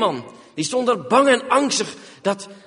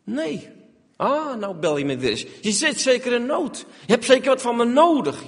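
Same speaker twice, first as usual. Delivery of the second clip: sarcastic reproach; 3 semitones higher than usual. Retold or imitated. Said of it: "zoals mensen dat kunnen doen".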